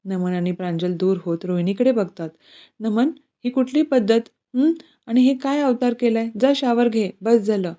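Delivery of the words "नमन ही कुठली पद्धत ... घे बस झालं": raised, sharp mother's scolding; angry scolding. Acted. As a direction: scold the son for his mess. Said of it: "ती चिडून रागातच बोलते". (रागात रागावणारी आई)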